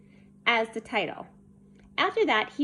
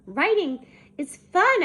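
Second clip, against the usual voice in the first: high, loud enthusiasm; gleeful; 7 semitones higher, 7 dB louder than usual. A narrator's reading. Child delighted by a pickle poem, gleeful. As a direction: exclaim it with delight.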